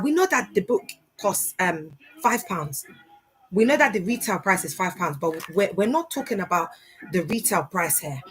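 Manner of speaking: lightly voiced preacher pitching a seed offering; mock fundraising preacher. Mocking a church leader pushing a five hundred pound book. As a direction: sell the overpriced book as sowing a seed. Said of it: "they'd be like".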